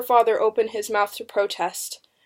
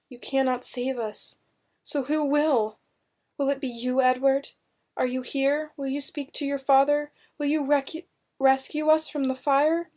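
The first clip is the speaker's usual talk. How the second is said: higher, pleading inner questions; dread; 5 semitones higher than usual. A narrator's reading. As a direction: plead silently with someone absent. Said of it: "Cold dread tightened in her throat".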